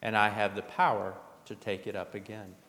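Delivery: measured, solemn scripture reading; gospel reading. Acted. Pastor reading the gospel lesson aloud, solemn. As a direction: proclaim the gospel to the congregation.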